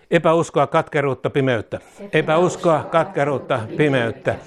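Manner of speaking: fervent prayer, each phrase said twice; leading a call-and-repeat prayer. Acted. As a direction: lead the congregation line by line in prayer. Leads repeat-after-me prayer.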